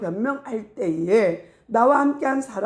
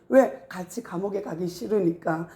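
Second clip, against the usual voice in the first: ordinary talk, nothing marked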